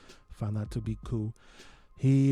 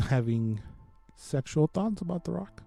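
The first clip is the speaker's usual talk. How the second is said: cracking up mid-line; 3 semitones higher, 4 dB quieter than usual. Real, not acted. Laughs at Rock joke.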